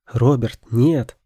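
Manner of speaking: loud cry of no; shout. A narrator's reading. Daughter shouts at Robert again, loud protest. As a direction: call him back hard. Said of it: "крикнула ещё раз она".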